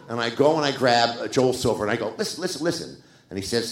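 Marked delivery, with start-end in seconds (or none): 2.2-3.0 high, eager plea for attention; retold urgent appeal. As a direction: grab the producer's ear, excitedly. Retold urgent pitch to producer.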